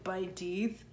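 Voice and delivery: slow "by teeth", B for M, nose shut; "by teeth" said through a blocked nose; blocked-nose sounds. Shown as a demonstration. Teacher repeats the stuffy-nose "my teeth", slow and stuffy. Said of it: "it sounds like a B".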